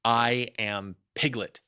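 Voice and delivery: insist, drawing each word out; loud protest. Acted. Piglet insisting to Kanga who he is, slow loud protest. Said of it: "said Piglet loudly".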